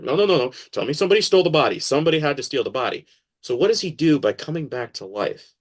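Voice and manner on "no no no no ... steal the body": higher, louder, very fast "no no no"; mock panic, rushing the words; panicked denial. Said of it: "they're over here like".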